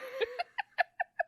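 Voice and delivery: squealing laugh, high; high helpless laugh. Real, not acted. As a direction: laugh till it hurts. Laughing hard at friend.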